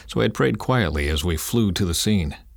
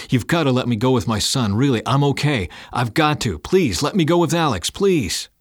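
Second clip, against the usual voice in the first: high-pitched, mounting plea; begging; 6 semitones higher, 3 dB louder than usual. Acted. Father begging medic to ride with son, pleading. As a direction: plead harder and higher towards the last word. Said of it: "I was reduced to begging but didn't care".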